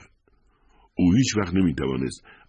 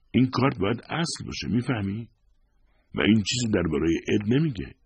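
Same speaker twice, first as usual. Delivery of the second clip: higher thin voice for the pleading wife; wife insisting to husband in a thin higher voice; thin, trembling; 7 semitones higher than usual. A narrator's reading. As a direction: pitch up thin, as if voice might break. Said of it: "با صدای نازک و لرزان".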